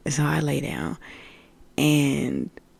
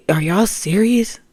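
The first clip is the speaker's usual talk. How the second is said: slow, louder incredulous question; tripping out in disbelief; 5 semitones higher, 6 dB louder than usual. Retold or imitated. Woman tripping out at the voices' orders, incredulous. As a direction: drag it out, loud and higher. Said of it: "then I really start tripping out".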